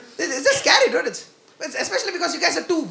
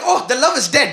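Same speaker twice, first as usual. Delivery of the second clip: mock disappointment; 2 semitones higher, 3 dB louder than usual. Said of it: "I had to pretend I was disappointed".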